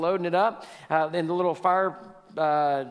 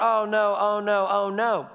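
lightly mocking, higher wail of dismay; louder, sing-out fretting in mock misery; mock panic; 4 semitones higher, 5 dB louder, slower than usual. Mimicking believers going around in misery, mock panic.

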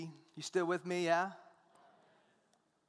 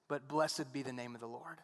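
soft blessing; 4 semitones lower, 3 dB quieter than usual. Shown as a demonstration. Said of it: "repeats verse".

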